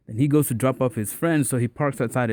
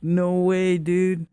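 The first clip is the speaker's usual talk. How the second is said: higher-pitched, impressed mock reaction; amazed disbelief; 6 semitones higher, much slower than usual. Friends hearing he got the number, amazed. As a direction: imitate a buddy who can't believe it.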